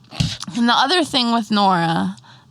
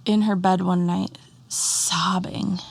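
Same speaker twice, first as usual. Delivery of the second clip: whispering; slower than usual. Real, not acted. Telling a quiet story.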